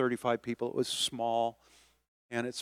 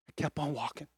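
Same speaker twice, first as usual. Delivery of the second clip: quiet, hushed repeat; soft; 7 dB quieter than usual. Acted. Quietly repeating it to the church. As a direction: say it softly, letting it sink in. Pastor repeats the line for effect.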